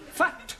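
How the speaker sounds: "Fat" with a crisp short vowel; "Fat" lifted and stressed; exaggerated vowel. Shown as a demonstration. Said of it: "No, not fat".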